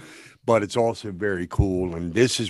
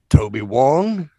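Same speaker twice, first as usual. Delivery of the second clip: slow, louder, puzzled film quote; quoting Joe; 6 semitones higher, 7 dB louder, slower than usual. Retold or imitated. Co-host quoting Joe's line from the film, musing aloud. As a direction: quote Joe mulling over a name, higher and drawn out. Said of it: "you'll hear Joe chime in".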